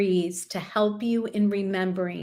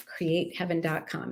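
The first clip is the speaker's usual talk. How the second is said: softer repeat; 3 semitones lower, 6 dB quieter than usual. Shown as a demonstration. Repeats web address softer.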